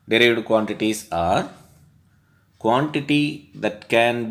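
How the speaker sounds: slow, emphatic textbook read-out; definition dictation. Real, not acted. Teacher reads derived quantities definition from the textbook, slow dictation. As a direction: dictate slowly with drawn-out key words.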